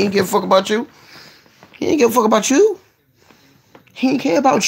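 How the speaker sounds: getting excited. Real, not acted. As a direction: build it up each time. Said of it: "I get excited, start breathing heavy".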